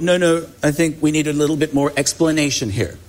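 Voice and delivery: mock American accent, lightly put on; a touch of American twang, half-joking. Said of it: "That's my American accent".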